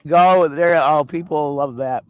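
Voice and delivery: sassy drag queen. Pretend. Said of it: "That's my drag character".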